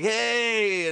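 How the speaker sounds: high, loud happy hey; loud greeting. Retold or imitated. Actor greeting the cheering room, loud. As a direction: shout it back happily.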